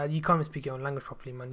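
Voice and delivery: ordinary talk, nothing marked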